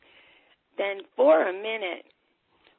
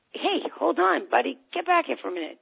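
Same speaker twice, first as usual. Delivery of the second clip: raised pitch, brisk call; calling back; 7 semitones higher, 3 dB louder than usual. Acted. Parent calling a child back to the kitchen, calling back. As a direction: call after someone walking off.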